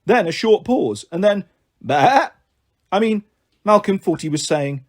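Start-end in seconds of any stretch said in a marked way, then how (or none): 1.8-2.3 imitated sheep's baa; a single human-voiced bleat. A narrator's reading. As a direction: bleat one short baa. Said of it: "you'd definitely have heard".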